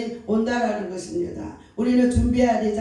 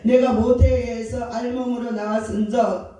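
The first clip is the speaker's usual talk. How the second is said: fervent confession. Retold or imitated. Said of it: "이렇게 고백했다라는 것입니다".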